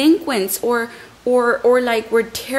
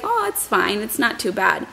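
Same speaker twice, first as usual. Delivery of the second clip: breezy dismissal. Shown as a demonstration. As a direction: brush it off like nothing happened. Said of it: "the way I say it sounds like".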